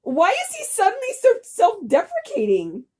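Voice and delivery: high, whiny mock lament; mock whiny pity. Friends mocking the sad baker boy, whiny. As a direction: whine on his behalf, hammed-up.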